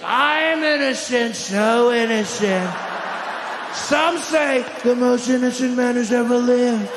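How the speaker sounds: very slow, drawn-out plea; hammed-up claim of being innocent; mock innocence. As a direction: stretch out a showy protest of innocence.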